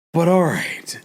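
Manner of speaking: whispered aside. Real, not acted. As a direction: drop to a breathy whisper.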